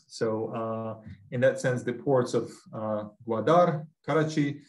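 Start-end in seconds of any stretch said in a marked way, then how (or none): 3.3-4.6 Russian-accented, careful pronunciation. Real, not acted. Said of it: "I'm pronouncing them in my Russian accent".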